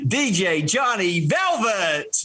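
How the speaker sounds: slow, drawn-out DJ intro with a lifted pitch. Shown as a demonstration. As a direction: announce the name like a club DJ. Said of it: "this is my D J voice introducing you here".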